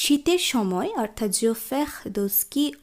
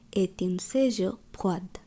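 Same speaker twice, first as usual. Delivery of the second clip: slow careful drill; 2 semitones lower, 3 dB quieter, much slower than usual. Shown as a demonstration. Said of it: "খুব ভালোভাবে লক্ষ্য করুন".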